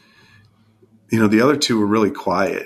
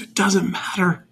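gentle whisper; 8 semitones higher than usual. Retold or imitated. A father forgiving his apologizing son, a tender whisper. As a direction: whisper it to comfort him.

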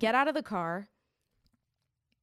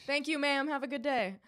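lightly voiced polite salesman, pitched up; a hint of customer-service politeness; 5 semitones higher than usual. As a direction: imitate a courteous send-off in a higher voice. Acts salesman's polite send-off.

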